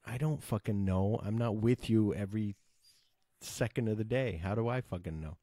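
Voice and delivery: mildly irritated, venting at dad; mock-exasperated comeback with some push; retold irritation. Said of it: "sometimes I get irritated with my dad".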